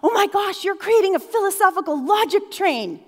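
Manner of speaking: imitating a high-pitched, thrilled nerd; acted nerdy gushing; nerdy excitement. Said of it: "nerdy way".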